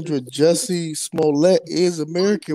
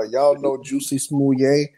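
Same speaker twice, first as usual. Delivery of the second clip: quoting the skit; slower than usual. Retold or imitated. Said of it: "when he was like".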